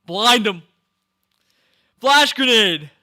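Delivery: loud, high battle cheers; hyped shouting. Real, not acted. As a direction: yell it like you're in the fight.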